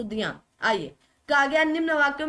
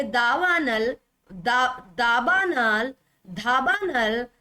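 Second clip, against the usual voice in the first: slow syllables; much slower than usual. Shown as a demonstration. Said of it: "सही उत्तर दवानल होता है".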